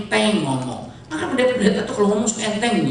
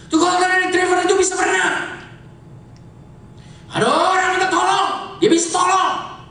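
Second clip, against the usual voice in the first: high, ringing preacher's delivery; full-force preaching; 12 semitones higher than usual. Real, not acted. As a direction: preach it out in a raised, sustained pitch.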